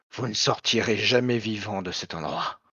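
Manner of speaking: monstrous female creature voice. Game narrator voicing a voice heard by everyone in the room: monstrous woman's voice. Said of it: "une voix monstrueuse, une voix de femme".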